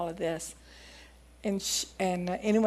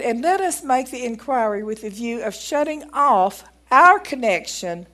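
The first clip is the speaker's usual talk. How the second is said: measured, emphatic reading of an account; reading aloud; 2 semitones higher, 6 dB louder than usual. Acted. Preacher reading a doctor's testimony to the congregation, deliberate read-aloud.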